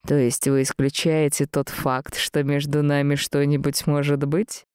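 subdued, probing man's question; a hint of cool Mr Gabriel; lightly voiced aloof master.

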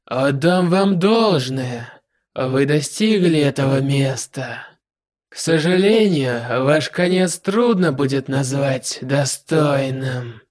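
slow, dry and detached; dry villain, drawn out slowly. Acted. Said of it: "сухим голосом сказал".

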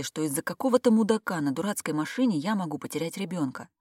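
ordinary delivery

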